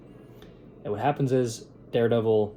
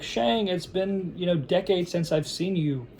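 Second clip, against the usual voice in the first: higher-pitched retold brotherly appeal; mock long-lost brother; 5 semitones higher than usual. Takeshi asks his brother to rebuild their brotherhood, higher mock appeal. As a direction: coax a brother to join you, pitched up. Voices brother inviting Shang to join.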